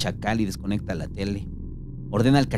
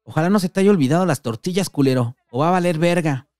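higher, louder yell from the couch; shouting threat; 6 semitones higher, 4 dB louder than usual. Acted. The patas yelling at the door about tortillas. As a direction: call out a rough warning. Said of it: "se sienta en el sillón y grita".

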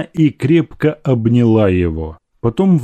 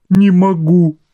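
strained; 8 semitones higher, 4 dB louder than usual. A narrator's reading. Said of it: "проговорила она с трудом".

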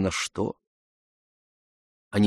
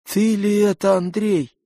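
plain reading voice

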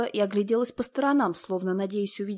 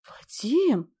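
squeaking; 5 semitones higher than usual. A narrator's reading. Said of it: "запищала девушка".

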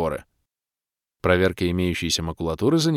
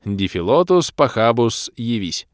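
gleeful incantation; 2 semitones higher, 4 dB louder, slower than usual. Acted. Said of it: "радостно забормотавший".

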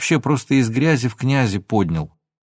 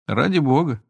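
indifferent; 4 semitones higher than usual. A narrator's reading. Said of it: "равнодушно выдохнул Абрикосов".

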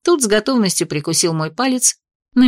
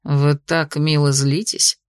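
low, slow, teasing purr; 5 semitones lower, slower than usual. Acted. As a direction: tease her gently, slowly. Dragon teasing heroine.

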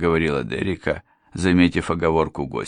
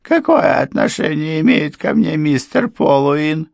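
defensive question; 10 semitones higher, 5 dB louder than usual. A narrator's reading. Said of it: "она попыталась защититься".

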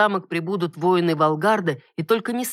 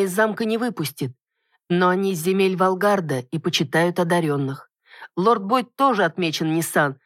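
heroine speaking; 3 semitones higher than usual. Acted.

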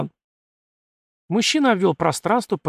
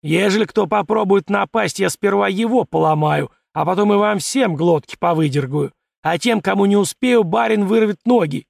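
menacing threat; 5 semitones higher, 4 dB louder than usual. A narrator's reading. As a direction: threaten the crowd, loud and steady. Servant threatens drunk crowd.

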